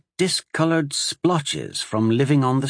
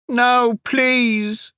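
put-on high, loud pleading child voice; a terrified little boy begging not to go in; boy crying in fear; 13 semitones higher, 4 dB louder than usual. A narrator's reading. Street boy begging the guards, high frightened plea. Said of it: "the boy cried".

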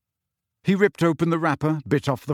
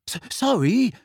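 stammered, higher-pitched gasped sorry; gasped apology; 9 semitones higher than usual. A narrator's reading. Neville apologising to drenched friends, gasped and stammering. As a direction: stammer it out high, as if caught short. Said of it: "he gasped".

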